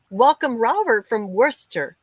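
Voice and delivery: "Worcester" said as two syllables, "Wooster"; carefully proper "Worcester", as "WUSS-ter"; proper pronunciation. Real, not acted. Streamer welcoming Robert with his town said properly, proper pronunciation. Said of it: "I was taught how to say it properly".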